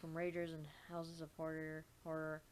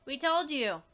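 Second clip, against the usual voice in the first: twin character voice; 7 semitones higher, 10 dB louder than usual. Acted. Twins voiced reading game text.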